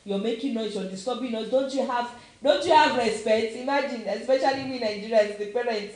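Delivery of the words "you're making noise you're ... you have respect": retold scolding. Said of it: "we used to shout on these kids".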